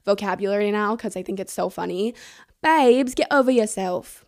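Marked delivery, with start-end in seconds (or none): 2.6-3.1 playful mock English accent, louder; a light go at a British tour guide's accent; cheeky British guide voice, tossed off; imitating an English accent. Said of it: "cute little English accent". 3.1-4.2 lightly British, teasing; hint of an English accent; mock English accent. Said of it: "cute little English accent".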